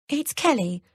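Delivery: gulping, as if in tears; fake tearful. A narrator's reading. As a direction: sound like she's about to cry. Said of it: "She gulps, making it sound as if she's in tears".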